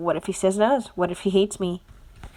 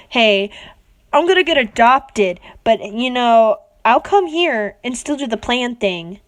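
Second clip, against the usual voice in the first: louder, mock casual Bakugo line; imitating Bakugo; 4 dB louder than usual. Reader acting out what Bakugo should say, louder. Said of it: "should have just said".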